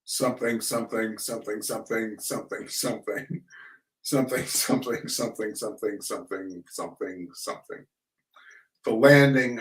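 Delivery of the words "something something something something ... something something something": somethings sinking lower into a whisper; fading away. Acted. Forgotten rest of the Pilgrim poem, fading to whisper. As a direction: let it dwindle to a breath.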